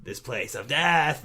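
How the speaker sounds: slow, moaning zombie echo. Retold or imitated. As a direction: drawl it out like an undead corpse. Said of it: "in her zombie voice".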